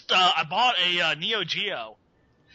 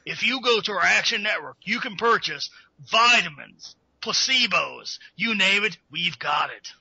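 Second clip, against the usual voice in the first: Alex Jones marketing voice. Acted. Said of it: "the Alex Jones marketing voice".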